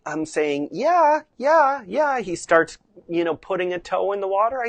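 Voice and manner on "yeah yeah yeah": high, swooping yeah; bright praise tone. Shown as a demonstration. Rider praising horse for doing right, bright tone. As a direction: reward the horse with lifted yeahs. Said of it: "when he's doing it right".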